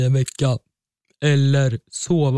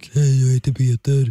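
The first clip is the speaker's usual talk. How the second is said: put-on voice pushed very dark and deep. Showing the other speaker how dark he can make his voice, very dark deep voice. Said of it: "Blir jättemörk".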